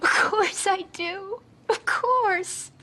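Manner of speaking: slow, catching on a sob; tearful reassurance. Acted. Daughter promising her mother, choked with tears. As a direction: reassure her while holding back tears.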